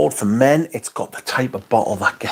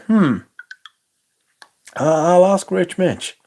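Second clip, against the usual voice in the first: higher, slower mock voice of Lily, dithering; mock lazy Lily; 7 semitones higher, slower than usual. Teasing Lily about her lost phone in a mock high, slow voice. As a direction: ham up a lazy excuse. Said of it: "to say".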